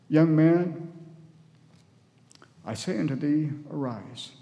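measured reading with long pauses; scripture reading. A narrator's reading. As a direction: read the verse solemnly, pausing between phrases. Reads scripture aloud to congregation.

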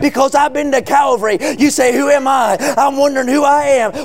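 driving, sustained revival sermon cadence; full-force preaching. Real, not acted. Preacher proclaiming salvation to the congregation, full-force preaching. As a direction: preach it hard, stretching the key words.

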